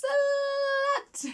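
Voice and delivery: sudden high, loud yelled word; shouted insult. Retold or imitated. Fletcher points at his boss, yelling the insult. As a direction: fling the word out like a punchline.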